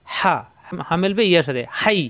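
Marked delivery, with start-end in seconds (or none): 0.1-0.3 হা with a strong h squeezed from the throat; pressed throat H. Shown as a demonstration. Teacher showing learners the letter, throat-pressed H. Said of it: "কণ্ঠনালীতে চাপ দিয়ে".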